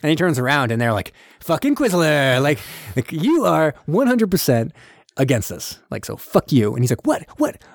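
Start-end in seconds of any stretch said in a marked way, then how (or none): 1.4-6.7 mock accusation. Acted accusation of a traitor. 7.1-7.6 high, hammed-up affront; mock indignation. Acted outrage at being accused.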